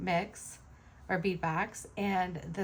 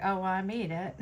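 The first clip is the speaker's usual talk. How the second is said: laughing; faster than usual. Retold or imitated. Modest reply to compliments.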